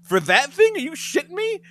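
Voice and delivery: high, loud, incredulous; can't believe the boast; disbelief. Retold or imitated. Incredulous reply to Jax.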